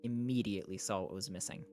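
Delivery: measured audiobook-style reading; story narration. A narrator's reading. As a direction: read it out as a novel's narrator. Reads a novel aloud.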